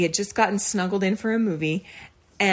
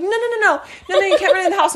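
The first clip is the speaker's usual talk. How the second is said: urgent stop; 10 semitones higher, 5 dB louder, much faster than usual. Retold or imitated. Stopping boy running into house.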